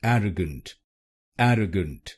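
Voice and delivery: एरोगेंट as AIR-uh-gent, stress first; correct pronunciation. Shown as a demonstration. Teacher gives the final right version, एरोगेंट. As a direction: finish on एरोगेंट, first syllable strong. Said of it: "इसको बोलिए".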